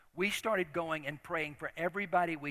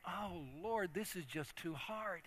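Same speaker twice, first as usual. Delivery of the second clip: weary quiet prayer; 11 dB quieter than usual. Retold or imitated. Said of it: "I remember this, think".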